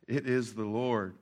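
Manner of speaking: "It is the Lord" said low, soft and slow; hushed awe. Retold or imitated. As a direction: breathe it out in quiet wonder. Disciple's awed realisation.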